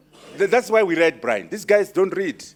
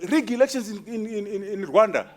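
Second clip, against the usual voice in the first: higher, indignant mock anger; a retold leader's furious reply; furious retort; 5 semitones higher than usual. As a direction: throw the accusation back, outraged. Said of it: "he was very furious".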